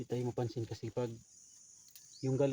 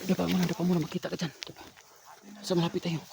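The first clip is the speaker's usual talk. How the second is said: urgent shout; 6 semitones higher, 5 dB louder, faster than usual. Acted. Urgent order to drop.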